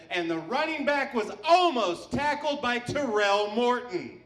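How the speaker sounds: slow announcer voice over the PA; lightly voiced stadium announcer; mock stadium announcer. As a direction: drawl it out like a loudspeaker call. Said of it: "the guy on the loudspeaker said".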